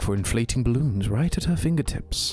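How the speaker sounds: William Afton lightly voiced, British; calm British villain read; plain British villain voice. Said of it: "a very plain British accent".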